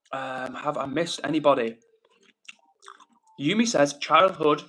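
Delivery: chewing while reading chat; words round a bite of food; mouth full. Real, not acted. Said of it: "I need to stop chewing with my mouth full".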